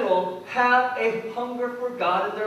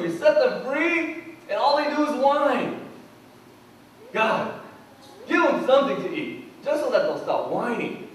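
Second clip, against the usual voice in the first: exasperated Moses; 3 semitones higher than usual. Retold or imitated. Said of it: "Moses goes to God and says".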